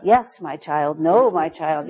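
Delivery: a hint of a pompous guru; mock oracle pronouncing fate. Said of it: "somebody else might say".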